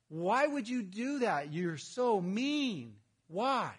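a hint of a complaining child, slow; lightly voiced sulky kid; whiny toddler. Pastor mimics a toddler protesting a parent's rule. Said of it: "toddler protesting parent".

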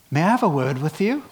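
posh British businessman voice; quick, polite British accent; mock British gentleman accent. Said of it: "suddenly he went British".

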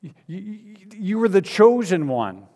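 grieving plea. Acted. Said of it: "He says".

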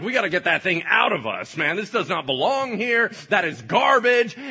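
loud disgusted command; urgent loud insistence. Acted. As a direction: get it out now, firmly. Holy Spirit expelling.

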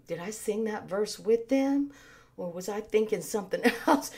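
acted absent-minded murmur; puzzled inner thought. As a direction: wonder quietly, as if losing track. Acting out a distracted singer's thought.

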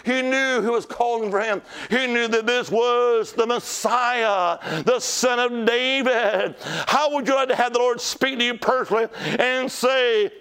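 sustained, ringing revival preaching; fervent preaching. Real, not acted. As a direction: preach it hard, stretching out the key words. Preaches at full force.

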